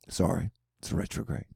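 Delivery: whispered excuse under the breath; a hushed, embarrassed whispered excuse; sheepish whisper. Real, not acted. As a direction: whisper it like a guilty aside. Sheepish excuse after going too far.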